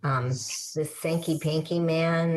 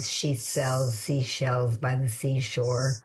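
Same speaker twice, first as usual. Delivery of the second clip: slow alliteration demo; 3 semitones lower, slower than usual. Shown as a demonstration. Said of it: "Our listeners remember that alliteration".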